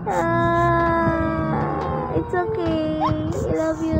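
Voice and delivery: drawn-out, tender comforting; soothing. Real, not acted. Parent comforting a tearful child, soothing and tender.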